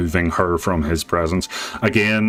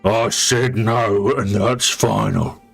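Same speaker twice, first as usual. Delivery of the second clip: flat refusal; 3 semitones higher than usual. Acted. Chief refuses the shaman.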